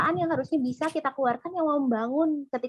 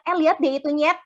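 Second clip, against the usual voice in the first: mild mocking jab; 3 semitones higher, 4 dB louder, faster than usual. Shown as a demonstration. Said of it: "beda intonasi dikit kayak berasa kita ngatain dia monyet".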